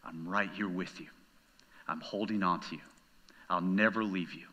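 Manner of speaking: God speaking to the hurting listener, soft and low; God's tender voice. Pretend. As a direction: hush it like a promise in the ear. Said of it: "he's telling you".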